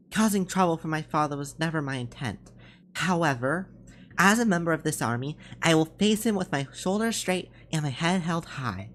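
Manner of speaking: lightly voiced, earnest soldier; resolute young soldier. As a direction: state your resolve firmly to your captain.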